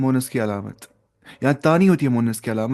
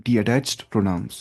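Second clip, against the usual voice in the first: slow teaching repeat; 3 semitones lower, much slower than usual. Shown as a demonstration. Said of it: "मुनफसिल का मतलब होता है detached pronouns".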